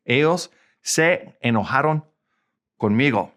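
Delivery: Spanish in separate words with pauses; word-by-word repeat. Shown as a demonstration. Teacher repeats the translation for learners, broken into words. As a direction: leave gaps in "Ellos se enojaron conmigo".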